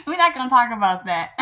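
fast, laughing through the words. Real, not acted. Vlogger laughing off an awkward topic with viewers, giggling. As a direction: brush it aside with a laugh.

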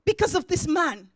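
loud, punchy sermon delivery; full-force preaching. Acted. Preacher announces an interruption of judgment, loud preaching. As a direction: hammer out each phrase to the crowd.

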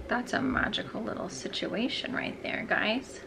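breathy unvoiced whisper. Real, not acted. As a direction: hush it like a secret. Hushed praise of scent.

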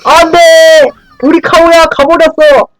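high hammed-up wail of despair; mock dramatic cry. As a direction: cry out like an anime hero. Teammate dies, mock dramatic cry.

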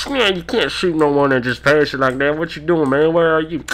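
put-on dispatcher over crackly radio; reply like an annoyed trucker on CB; mock radio chatter. Acted radio dispatcher answering him.

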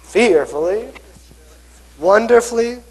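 fearfully squeaked high, wonderfully lifted; playful demo for kids; mock fearful then wonderful. Shown as a demonstration. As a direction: act scared then amazed. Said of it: "And then".

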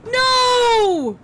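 high loud frantic cries; panicked yelling. Real, not acted. Player panicking as attackers storm the checkpoint. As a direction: panic as it all falls apart.

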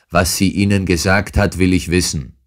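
a hint of a furious demand; angry yell. Roylott demanding what his stepdaughter said, mildly angry. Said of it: "schrie der andere wütend".

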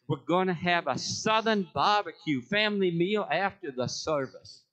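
lightly put-on Southern accent; attempted Southern accent. Shown as a demonstration. Speaker announcing church barbecue, attempted Southern accent. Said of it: "I should say this with an accent".

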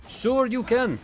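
high, loud game announcer shout; Street Fighter announcer voice. Retold or imitated. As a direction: belt it like an arcade fighting game. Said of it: "from Street Fighter sounds like sure you can".

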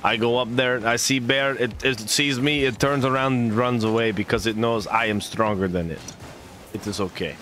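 put-on Russian accent. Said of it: "I did the Russian for you".

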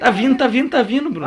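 high, giggling cheer; laughing excitedly. Real, not acted. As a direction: laugh while urging it on. Pushing something, cheering it on.

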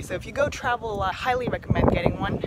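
panting after a workout circuit; winded, short of breath. Real, not acted. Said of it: "Sorry, I'm out of breath right now".

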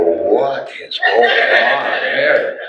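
slow, amazed, laughing through it; laughing disbelief. Retold or imitated. Hugging the stranger, slow laughing amazement. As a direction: drawl it out in happy disbelief.

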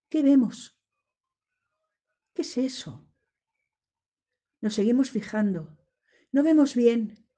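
a mild demo of rising fear, half narrated; acted growing dread. Shown as a demonstration. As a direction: narrate the scare as you act it, with creeping unease. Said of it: "con una sesión de terror". (miedo creciente actuado, narrado a medias)

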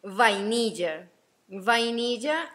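slow vainilla with labiodental V; slow, careful V in vainilla. Shown as a demonstration. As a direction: say vainilla, stressing the written V. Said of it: "es con V corta".

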